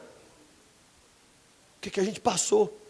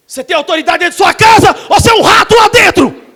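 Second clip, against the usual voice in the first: loud fiery challenge to the men; preaching shout; 6 semitones higher, 14 dB louder than usual. Acted. Preacher rebuking weak husbands, loud shout.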